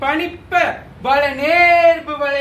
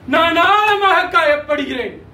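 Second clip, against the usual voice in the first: raised, emphatic declaration of hurt; insistent hurt; 2 semitones higher than usual. Acted. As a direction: press the pain home more forcefully. Same hurt, repeated more forcefully.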